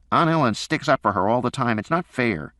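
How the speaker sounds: put-on it's so unfair, says the kid; whining boy. A narrator's reading. Son whining to his dad about Aunt Ellen, aggrieved.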